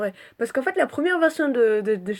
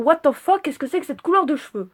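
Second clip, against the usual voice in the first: viewer's mock surprise; 5 semitones higher, 5 dB louder than usual. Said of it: "vous devez vous dire".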